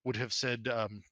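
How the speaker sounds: lightly voiced, stammering noble father; a touch of embarrassed backpedalling; flustered lord. Lord Kensington explains his oldest to Mert, mildly flustered.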